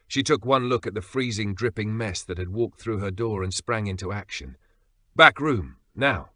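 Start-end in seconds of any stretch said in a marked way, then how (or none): 5.1-6.3 loud curt command; ordering. Acted. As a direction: bark the order. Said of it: "she ordered".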